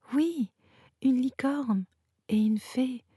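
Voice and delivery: put-on high, thrilled child's exclamation; excited. A narrator's reading. Little sister confirms the marvel to her brother, excited. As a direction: pitch it up with trembling excitement. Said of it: "dont les jambes tremblaient d'excitation".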